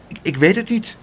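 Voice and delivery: mildly anxious stammer; hesitant, a little frightened; a bit scared. Acted. Pluk answers the angry aunt, a little scared. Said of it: "zei Pluk een beetje angstig".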